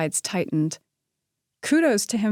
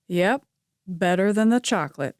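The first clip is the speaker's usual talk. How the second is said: confident. A narrator's reading. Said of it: "he said confidently".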